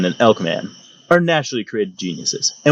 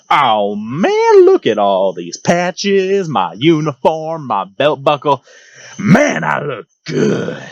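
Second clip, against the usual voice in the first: vain swagger; 3 semitones higher, much slower than usual. Retold or imitated.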